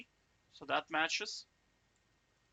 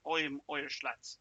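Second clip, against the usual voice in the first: put-on Irish accent. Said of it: "but now I'm Irish".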